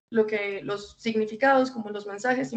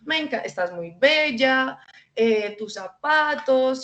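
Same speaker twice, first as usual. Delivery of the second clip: higher, sweet gushing adult voice, slow at first; cooing at a little girl; 4 semitones higher than usual. Retold or imitated. Adult gushing at a little girl she just met, high cooing. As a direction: gush over a small girl's looks. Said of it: "la primera vez que las vemos es como".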